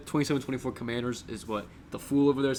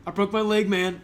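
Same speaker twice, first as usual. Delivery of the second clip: Bobby Kelly impression; 7 semitones higher, 5 dB louder than usual. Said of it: "this clip of, like, this one comedian, Bobby Kelly".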